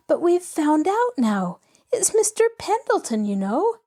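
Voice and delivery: a hint of a bright young girl, bubbling over; lightly voiced eager girl. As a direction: let the girl's excitement spill out. Pollyanna telling the romance.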